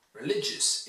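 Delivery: re-LIG-ious, stress on the middle of "Religious"; second-syllable stress. Shown as a demonstration. Teacher models for students, "Religious" stressed on second syllable. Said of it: "it's stressed on the second syllable".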